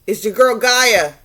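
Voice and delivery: lightly voiced goddess hailing a friend; earth goddess calling. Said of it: "she looked to the sky and was like".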